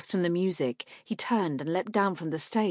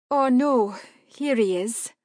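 alarmed woman; 6 semitones higher, 6 dB louder than usual. A narrator's reading. Marka alarmed.

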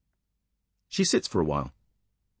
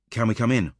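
policewoman asking; 5 semitones higher than usual. Acted. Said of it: "the female officer asks".

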